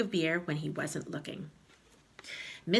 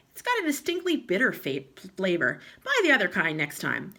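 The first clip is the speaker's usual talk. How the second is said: grumpy husband; 3 semitones higher, 4 dB louder than usual. Acted. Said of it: "Mister Twit said".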